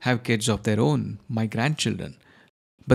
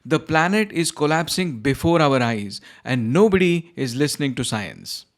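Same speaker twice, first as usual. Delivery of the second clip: higher, rising panic; agitated; 3 semitones higher than usual. Acted. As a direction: spiral into frantic alarm. Client's climate panic rant.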